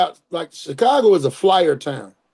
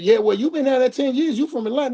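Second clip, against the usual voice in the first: quoting wife; 5 semitones higher than usual. Retold or imitated. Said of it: "She said".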